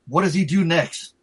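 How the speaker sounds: slow, drawn-out rhetorical question; suspenseful storytelling question. Real, not acted. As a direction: draw it out, make the listeners guess. Storyteller builds suspense, asks listeners.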